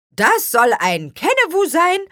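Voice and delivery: high, puzzled question; wondering. A narrator's reading. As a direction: ask it baffled, voice jumping up. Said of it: "wunderte sich Spargelzahn". (verwundert, hoch und ratlos)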